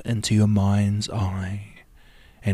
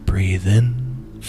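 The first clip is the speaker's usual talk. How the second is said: "Breathe in" called a little louder, lifting on "in"; breathe in cue; 4 dB louder than usual. Shown as a demonstration. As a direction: cue the inhale clearly. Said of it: "When I say breathe in".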